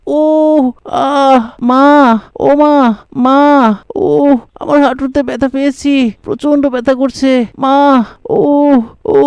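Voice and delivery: hammed-up groaning over a knee; boy fakes a knee injury to fool his mother; faked pain.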